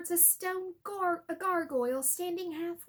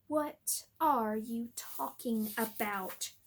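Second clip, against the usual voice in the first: cold sneer; 3 semitones lower, slower than usual. Acted. Snape sneers at Harry.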